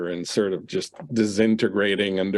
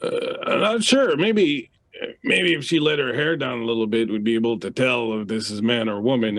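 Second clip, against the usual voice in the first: mocking drunk; 2 semitones higher than usual. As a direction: squeak it out, egging on his buddy. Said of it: "So one of them goes".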